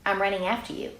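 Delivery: casual no problem; lightly voiced easygoing mother; breezy mom. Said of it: "the mom says".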